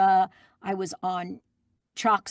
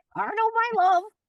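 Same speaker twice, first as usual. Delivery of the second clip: very high, parrot-like talking-bird voice; 3 dB louder than usual. Recalling the other speaker's old job, the speaker repeats their parrot voice. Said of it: "Can you do a parrot voice?".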